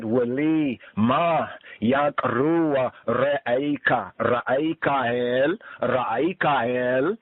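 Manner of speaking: drawn-out careful Aramaic reading; slow recitation. Acted. Teacher slowly recites the Aramaic for students. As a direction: stretch each syllable for the class.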